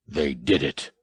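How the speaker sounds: low, soft awed whisper. A narrator's reading. Ackbar at the view screen, awed whisper. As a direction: breathe it out in disbelief. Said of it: "Ackbar whispered".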